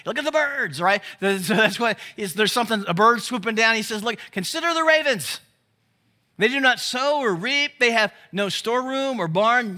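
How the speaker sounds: Jesus pointing out the birds, excitedly distracted. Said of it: "Jesus has A D H D".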